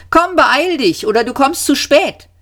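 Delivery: high, urgent call; old man calling out urgently. A narrator's reading. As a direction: hurry someone along from afar. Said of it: "rief der Alte".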